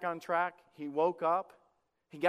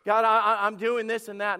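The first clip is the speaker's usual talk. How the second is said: louder, laughing mock bragging to God; self-pleased boast; 2 semitones higher, 4 dB louder than usual. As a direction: show off with a laugh. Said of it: "put your hand out and say".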